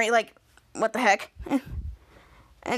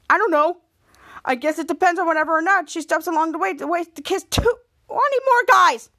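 tag; 4 semitones higher, 3 dB louder than usual. Retold or imitated. Angry Henry jabs about Bianca's kissing.

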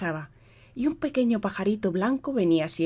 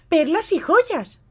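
high and slow, greedy; stepsister voice; 12 semitones higher, 6 dB louder, much slower than usual. A narrator's reading. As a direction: drawl out the wish. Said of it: "dijo la otra".

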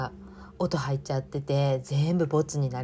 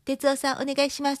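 sweet cue voice; 9 semitones higher than usual. Retold or imitated. Quoting a sweet cue to husband.

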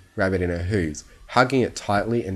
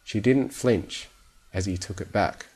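ordinary delivery, nothing marked

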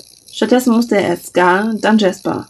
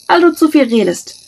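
teasing; 8 semitones higher, 4 dB louder than usual. A narrator's reading. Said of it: "meinte sie mit einem schelmischen Grinsen".

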